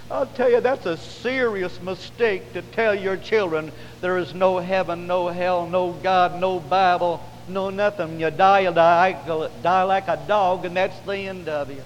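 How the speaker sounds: insistent warning from the pulpit; preaching. Real, not acted. Preacher warning parents about what they tell children, insistent preaching. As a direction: hammer out the list of denials.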